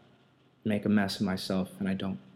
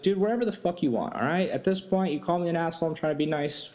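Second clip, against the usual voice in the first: exasperated retort; 6 semitones higher than usual. Retold or imitated. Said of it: "I was like".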